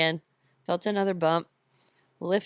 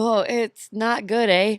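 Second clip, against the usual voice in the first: slow, tentative Canadian accent; 3 semitones higher, 4 dB louder, slower than usual. Shown as a demonstration. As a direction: play up a Canadian "eh". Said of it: "How good is your Canadian accent?".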